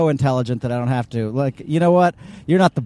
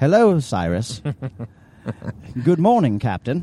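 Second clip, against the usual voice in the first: put-on British accent in a spaceship-computer voice. Asked how they'd voice the character, the speaker tries a put-on british accent. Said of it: "I would love to actually be the British voice".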